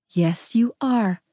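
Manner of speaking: slow, gentle insistence; coaxing. Acted. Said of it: "she coaxed".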